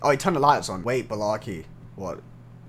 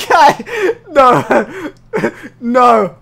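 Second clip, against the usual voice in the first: nervous refusal; 8 semitones higher, 10 dB louder, much slower than usual. Real, not acted. Refuses to turn around in game.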